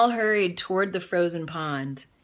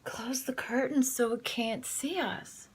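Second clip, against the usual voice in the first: hushed whisper; 6 semitones higher, 6 dB quieter than usual. Acted. Adeline's parents whispering to hide from the dog. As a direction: whisper so the dog won't hear.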